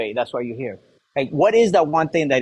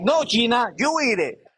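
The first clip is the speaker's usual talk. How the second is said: laughing retort; 8 semitones higher, slower than usual. Retold or imitated. Retold joking retort.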